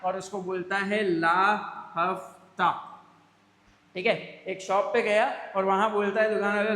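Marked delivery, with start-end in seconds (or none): 1.0-2.9 loud goon demanding money. Acted. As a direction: bark it like a street thug. (गुंडे की तरह हफ्ता माँगना)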